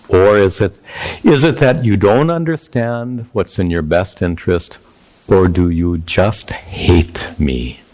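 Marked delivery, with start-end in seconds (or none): 1.2-7.8 mildly mock-wounded, slowing at the end; a touch of sarcasm, drawing out the last question; dripping sarcasm. Son challenging his father, mildly sarcastic. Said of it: "it's dripping with sarcasm".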